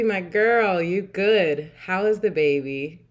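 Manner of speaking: ordinary delivery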